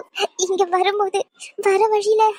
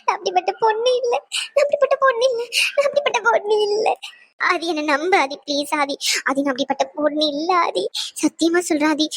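crying plea; faster than usual. Acted. Wife begging Aadhi to believe her, crying. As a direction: plead your innocence while weeping. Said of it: "அவ அவ்வளவு அழுகு அழுதுகிட்டு இருக்கா".

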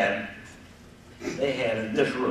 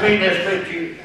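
laughing quote; 8 semitones higher, 13 dB louder than usual. Retold or imitated. Quoting cop, laughing.

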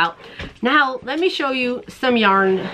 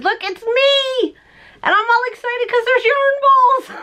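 much higher, slow, giddy squeal; squealing excitement; 12 semitones higher than usual. Acted. Showing viewers her own cartoon button with giddy squealing. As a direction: squeal like a kid at yarn.

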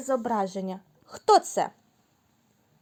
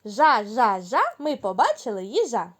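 happy, louder chant; joyful; 3 dB louder than usual. Shown as a demonstration. Teacher repeats the joyful chant with kids. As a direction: say it gladly. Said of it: "Давайте спробуємо радісно".

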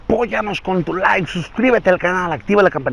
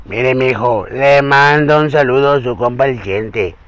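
famous ranchera singer voice; 2 semitones lower than usual. Acted. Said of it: "la señor del cantante".

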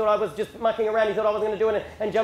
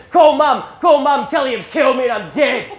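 loud, pitched-up frantic demand; angry yelled order; 4 semitones higher, 7 dB louder than usual. Retold or imitated. Wounded dad throwing phone at son, yelling. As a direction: yell it as a hammed-up dying father.

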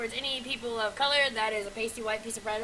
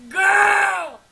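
exclaiming; 5 semitones higher, 12 dB louder than usual. Real, not acted. Reacting loudly to mask.

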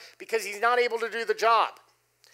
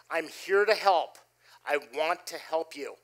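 gentle reassurance; 3 semitones lower than usual. Retold or imitated. Calming an angry subcontractor.

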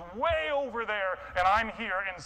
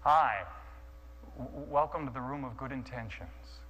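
slick polite hostess; 4 semitones lower than usual. Retold or imitated. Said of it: "slick, smooth, almost too polite voice".

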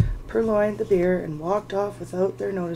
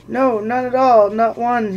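loud higher panicked correction; hasty denial; 3 semitones higher, 8 dB louder than usual. Acted. Bilbo to the trolls, a loud hasty denial. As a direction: take it back fast.

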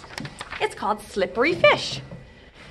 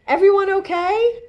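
concerned; 9 semitones higher, 6 dB louder than usual. Acted. Pool manager arrives running.

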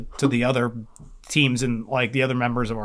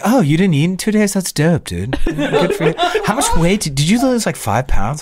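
higher, louder sarcastic praise from a buddy; mock congratulations; 6 semitones higher, 6 dB louder than usual. Friend Eric teasing him about skipping meals, sarcastic cheer. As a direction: gush over it with fake enthusiasm. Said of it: "you'd been like".

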